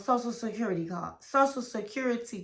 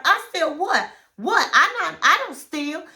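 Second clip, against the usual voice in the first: indignant laughing denial; 4 semitones higher, 3 dB louder than usual. Retold or imitated.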